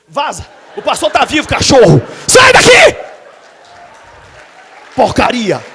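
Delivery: retold fury, shouted full force; furious chase-off. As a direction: run him out yelling. Preacher throwing out lawyer.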